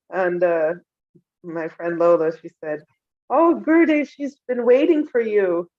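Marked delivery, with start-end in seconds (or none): 3.3-5.7 high, loud, excited exclamation on a friend's behalf; eager appeal. Retold or imitated. Friend presenting her to the guru, eager appeal. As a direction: cry it out high, then stretch the words.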